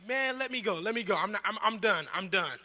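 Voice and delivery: a pinned brother begging to be let go, loud; mock surrender. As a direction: tap out loudly, hammed-up. Pinned in sibling wrestling.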